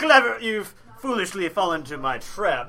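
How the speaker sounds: slow, loud, gloating villain speech; villain monologue. Acted. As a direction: ham up a movie villain's monologue.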